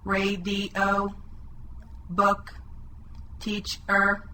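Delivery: Sunset chopped into two flat, even pieces, SUN and SET; level robot monotone, one piece per syllable; robot speak. Shown as a demonstration. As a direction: chop Sunset apart like a robot. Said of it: "how we're chopping the words into pieces".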